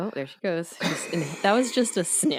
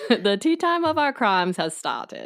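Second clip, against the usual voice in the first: dramatic announcer; 5 semitones higher, 3 dB louder, slower than usual. Pretend. Dramatic show intro.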